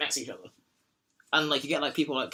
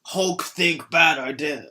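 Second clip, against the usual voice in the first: slow, lumbering Hulk speak; much slower than usual. Retold or imitated. Podcast host imitating the Hulk, slow and lumbering. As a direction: plod each word out like a brute. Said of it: "he'd be like".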